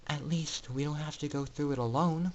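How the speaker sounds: soft, gentle comfort; cooing softly. Acted. Scootaloo comforts crying Orion, cooing softly. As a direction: soothe a friend. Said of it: "she cooed softly".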